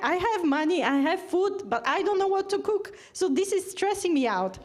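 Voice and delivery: plaintive patient. Retold or imitated. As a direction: mimic the worried patient's whine. Patient complaining about cooking.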